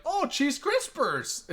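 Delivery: high, slow imitated Hispanic accent; mock Hispanic accent. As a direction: parrot the ad's forced Hispanic accent. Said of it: "I was like".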